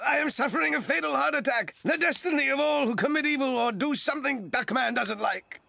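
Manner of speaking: ordinary delivery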